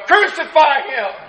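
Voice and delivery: high-pitched mock yell from the crowd. A crowd member demanding Pilate crucify him, high mock yell. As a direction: cry it out like one voice in a mob. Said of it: "you might even yell".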